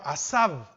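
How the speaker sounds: asab said slowly, stress on the first a; Hebrew word asab. Shown as a demonstration. Preacher spelling out asab for the church. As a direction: say asab with the accent on the A. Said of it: "acento en la A".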